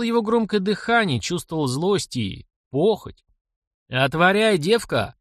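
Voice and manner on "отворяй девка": гневный окрик. A narrator's reading. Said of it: "крикнул югун".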